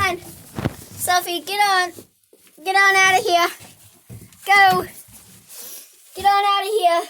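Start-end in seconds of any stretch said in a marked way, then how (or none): 2.6-7.0 louder firm shoo. Real, not acted. Shooing her dog out of the shed, firm loud shoo. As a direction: order the dog out.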